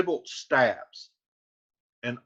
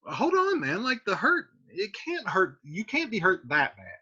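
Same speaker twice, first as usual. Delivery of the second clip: reassuring Romeo; 4 semitones higher than usual. Retold or imitated. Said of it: "He's like".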